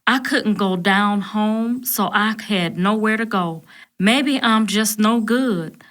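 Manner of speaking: understated crying through a slow drawl; mild tearful drawl. Acted. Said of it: "an even slower drawl".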